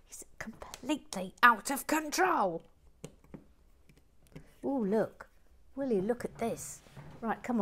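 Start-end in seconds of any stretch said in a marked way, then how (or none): 0.1-2.6 conspiratorial whisper; hushed gossip; whispered aside. Real, not acted. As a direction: lean in and whisper it. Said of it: "whispered aside to camera".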